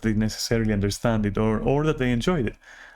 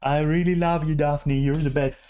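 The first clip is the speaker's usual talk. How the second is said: higher and a bit brighter, mock gushing; gushing reassurance; 5 semitones higher than usual. Other person begging Daphne to stay, gushing mock reassurance. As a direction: lay on the mock sweetness to keep her there. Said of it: "the other person is like".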